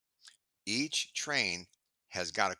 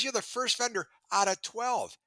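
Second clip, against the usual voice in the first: imitating VP of sales; 12 semitones higher, 3 dB louder than usual. VP of sales praising him.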